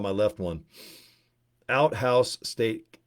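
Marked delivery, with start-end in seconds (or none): 1.7-3.0 very slow, drawn-out mock name; slow joke name. Shown as a demonstration. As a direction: spell out "Outhouse Steak" word by word. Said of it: "Repeat after me".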